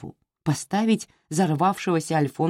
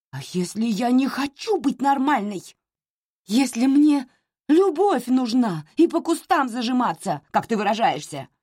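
shouting; 8 semitones higher than usual. A narrator's reading. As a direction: fling it at her mother, pitched up. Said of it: "закричала Анна".

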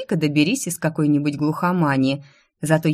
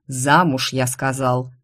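low, firm, final "Замуж"; curt angry order; 4 semitones lower, slower than usual. Acted. Baron ordering his daughter to marry, low curt angry command. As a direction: slam the door on the argument. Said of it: "Сердито подхватив с мостовой свёртки".

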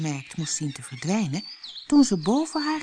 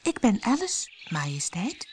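polite; 5 semitones higher than usual. A narrator's reading. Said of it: "antwoordde Alice beleefd".

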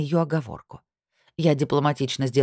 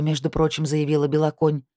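usual speaking voice

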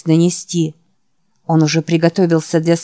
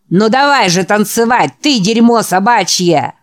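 loud, higher barking challenge; barked insult; 4 semitones higher, 3 dB louder than usual. Acted. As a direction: bark it like a brawler. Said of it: "рявкнул Гек Баст".

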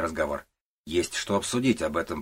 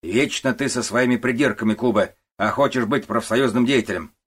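scolding boss; 5 semitones higher, 7 dB louder than usual. Acted. Начальник отчитывает Кубе.

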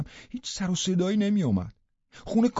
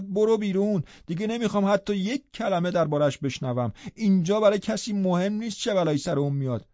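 داد خشمگین ارباب. Acted. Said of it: "ارباب داد زد".

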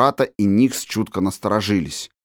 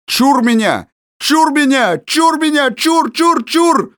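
very high, loud frantic warding-off; wild scream; 4 dB louder than usual. A narrator's reading. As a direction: scream in panic, rising. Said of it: "закричал дико". (дикий крик ужаса)

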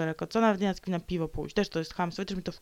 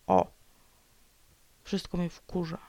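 ordinary talk

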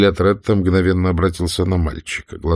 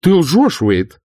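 higher and louder accusation; sharp exclamation; 9 semitones higher, 4 dB louder, much slower than usual. A narrator's reading. Scarlett to Wade, sharp accusing cry. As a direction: catch the boy in a lie. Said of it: "воскликнула, оборачиваясь".

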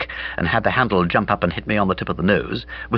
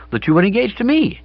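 incredulous whisper; 13 semitones higher than usual. A narrator's reading.

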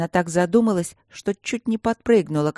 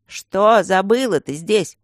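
grumpy stone guardian; 2 semitones higher, 5 dB louder, slower than usual. Acted. Stone guardian questions her.

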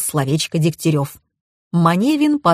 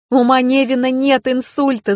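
a bright, higher cry of relief and joy; rejoicing; 6 semitones higher than usual. A narrator's reading. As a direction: announce it like the best news of the day. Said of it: "заликовала я". (ликующе, на подъёме)

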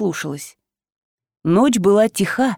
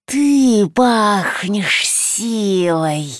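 very slow, drawn-out monster threat; menacing creature voice; 3 semitones lower, much slower than usual. Acted.

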